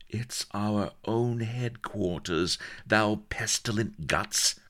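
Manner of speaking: impatient. A narrator's reading. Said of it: "cried Bilbo impatiently".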